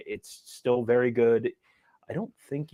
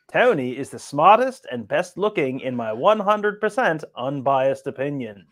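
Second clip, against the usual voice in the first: put-on Australian accent; 2 semitones higher than usual. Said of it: "in your Australian accent".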